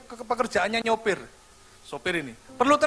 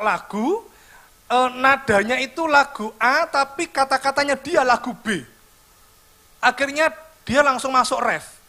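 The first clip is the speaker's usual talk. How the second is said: usual speaking voice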